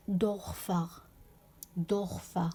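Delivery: دورفر with an open, un-umlauted o; plain o, no umlaut. Shown as a demonstration. Teacher shows how it is not read, دورفر with plain o. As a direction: say دورفر with back o, as Dorfar. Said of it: "ما قريتوش دورفر".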